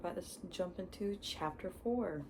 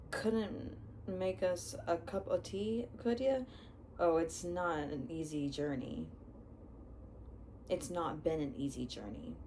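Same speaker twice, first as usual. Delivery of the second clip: put-on Hagrid accent. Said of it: "hard for me to read Hagrid 'cause he has his accent".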